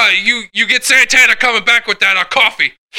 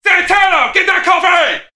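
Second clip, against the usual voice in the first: calling out; 10 semitones higher, slower than usual. Real, not acted. Santa shouts across the studio for Santana to bring the coffee. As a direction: yell to Santana to hurry.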